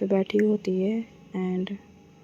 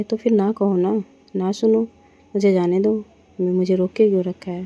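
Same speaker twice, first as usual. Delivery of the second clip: louder, heated protest; angry outburst; 5 dB louder than usual. Acted. Woman tells her partner to let her leave, angry and loud. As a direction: snap back, demanding to be let go. Quarrel over breakfast, Ragini objects.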